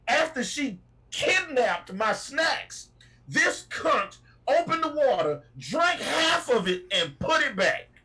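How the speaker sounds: high, slow, indignant emphasis; outraged rant. Real, not acted. Driver ranting to stream about the stolen snacks, outraged. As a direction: spell out each outrage slowly and high.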